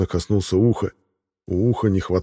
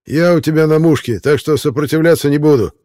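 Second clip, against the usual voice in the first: frightened giving in; 8 semitones higher, 6 dB louder than usual. Acted. Rollo surrendering frightened.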